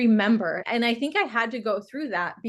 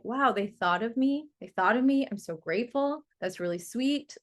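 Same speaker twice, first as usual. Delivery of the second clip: grateful. Shown as a demonstration. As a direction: let the thanks melt in. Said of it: "Just practice gratitude".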